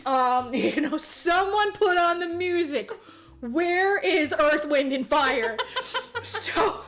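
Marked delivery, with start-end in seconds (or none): 1.0-5.6 mock calling out. Acting out someone calling for music.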